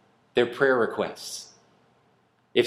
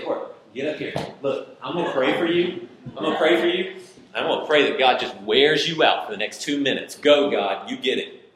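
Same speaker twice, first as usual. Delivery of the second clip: bold prayer over Court. Pretend. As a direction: pray over him like a cheerleader. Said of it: "I wanna say".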